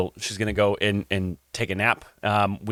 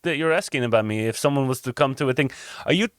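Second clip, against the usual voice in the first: suspicious character voice, rising higher at the ends; suspicious innkeeper's guest; 8 semitones higher than usual. Acted. Jacques asking if they mean to hurt his cousin, suspicious. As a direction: question them warily, in character.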